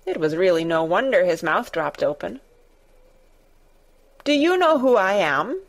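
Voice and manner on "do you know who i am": imperious demand. Acted. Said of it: "demanded the Rajah".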